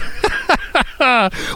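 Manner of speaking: high-pitched burst of laughter; real laugh. Real, not acted. Host amused that listeners still discuss his accents, laughing. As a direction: burst out in a high run of giggles.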